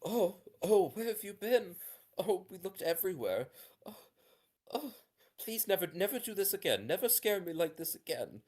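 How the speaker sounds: put-on a mother near tears begging her child; frantic mother. Mother voiced in GM scene.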